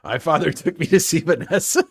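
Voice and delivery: loud, laughing cartoon Southern bluster; Foghorn Leghorn. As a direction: boom it out in a joking Southern voice. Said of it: "talks like Foghorn Leghorn".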